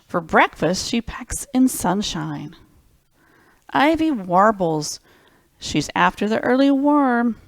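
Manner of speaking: slow, lilting storybook read; gentle picture-book narration; reading to children. Acted. Reads picture book aloud.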